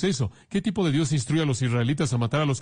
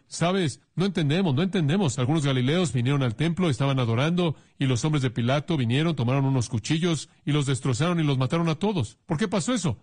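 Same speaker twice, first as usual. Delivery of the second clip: puzzled questioners; 2 semitones higher than usual. Retold or imitated. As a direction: play the confused askers. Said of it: "vinieron a Jesús y dijeron". (gente desconcertada, voz aguda)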